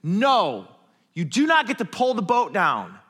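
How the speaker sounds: loud, scolding command; indignant rebuke; stern rebuke. Acted. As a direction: tell the storm off with force. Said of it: "what Jesus said if he's rebuking".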